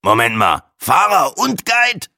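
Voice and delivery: slow, high disbelieving question; incredulous echo. A narrator's reading. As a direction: stretch "Fahrer und Guide" in astonishment. Breitling echoes Bahe in disbelief. (ungläubig nachgefragt)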